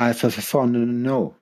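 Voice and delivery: very slow, stretched Alforno; drawn-out name. Pretend. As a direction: drag out the word slowly. Playful drawn-out show name.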